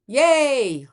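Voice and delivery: a bright, loud little yay; excited cheer. Real, not acted. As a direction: celebrate the sun moving into Gemini. Cheering about the sun in Gemini.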